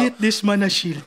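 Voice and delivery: put-on light Black Panther-style African accent; South African accent. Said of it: "Parang sa South African accent".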